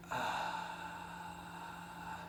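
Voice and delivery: airy unvoiced ah; breathy tone. Shown as a demonstration. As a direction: let air leak through the ah. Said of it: "now you can kinda hear that".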